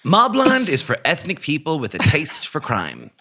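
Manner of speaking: slow announcer's tagline; mock station ident. Host recording a sound bite for the show, slow mock ident. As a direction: draw it out like a promo sound bite. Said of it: "these little idents".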